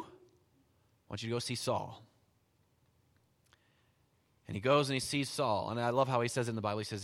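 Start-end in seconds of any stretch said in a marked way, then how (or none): 0.0-2.1 slow, lower, patient repeat; calm voice of God. Acted. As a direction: say it slowly, like God insisting gently. God repeating calmly to Ananias.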